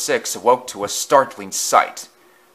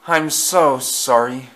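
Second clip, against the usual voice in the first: sighing apology; 3 semitones higher, 4 dB louder, slower than usual. Acted. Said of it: "he sighed".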